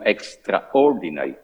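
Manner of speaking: "extraordinary" said deliberately, set apart by pauses; stress on extraordinary. Real, not acted. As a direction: lean on the word "extraordinary". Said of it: "and I stress this word".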